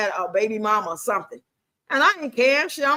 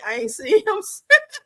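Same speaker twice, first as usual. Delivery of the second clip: higher, slow, laughing through the words; breaking up laughing; 7 semitones higher, 3 dB louder than usual. Real, not acted. Woman cracking up over her own dating story, laughing. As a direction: dissolve into laughter while drawing the words out.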